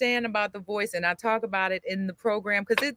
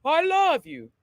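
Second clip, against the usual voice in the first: higher, open yawning throat; yawned speech; 6 semitones higher than usual. Shown as a demonstration. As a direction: let the yawn shape the words. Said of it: "Yawn first".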